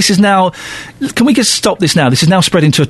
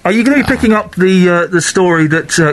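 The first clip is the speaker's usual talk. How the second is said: muffled through a hand; hand over mouth; 2 semitones higher than usual. Real, not acted. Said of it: "with your hand over your mouth now".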